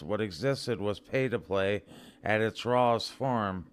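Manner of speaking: normal talking voice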